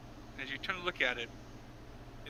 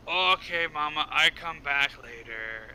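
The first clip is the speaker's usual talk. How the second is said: put-on child character; 3 dB louder, slower than usual. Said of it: "Nah, he's like".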